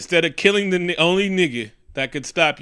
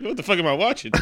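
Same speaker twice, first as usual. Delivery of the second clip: laughing disbelief; 4 semitones higher, faster than usual. Retold or imitated. Retold viewer shock, laughing.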